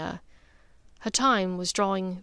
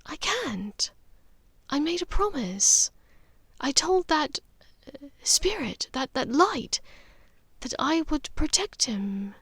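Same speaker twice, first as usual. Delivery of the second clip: gentle; 6 semitones higher than usual. Acted. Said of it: "She answered gently".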